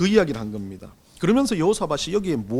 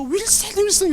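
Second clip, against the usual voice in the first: mock frantic call; 12 semitones higher than usual. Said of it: "외치며".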